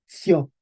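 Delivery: sio said as tsio; syllable demonstration. Shown as a demonstration. Teacher building the word by syllables, ts pronunciation. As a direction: start sio with ts. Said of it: "La C era una ts".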